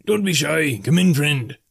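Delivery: high, friendly innkeeper's call; lilting high-voiced barkeep greeting; welcoming barkeep. A narrator's reading. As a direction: invite a stranger in, pitched well up. Barkeep welcomes newcomer in tavern.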